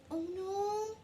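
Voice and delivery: put-on lively read-aloud to little kids; storytime reading. A narrator's reading. Teacher reading a picture book to children, lively. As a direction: read it bright and animated for the class.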